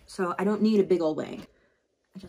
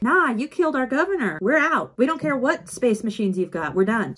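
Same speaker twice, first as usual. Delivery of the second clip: defiant rebels; 4 semitones higher, 4 dB louder than usual. Retold or imitated. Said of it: "They're like".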